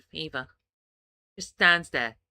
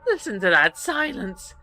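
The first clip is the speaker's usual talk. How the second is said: loud, unhinged delight; gleeful exult; 6 dB louder than usual. Acted. Bucks to Iggy, loud manic delight. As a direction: revel in it loudly.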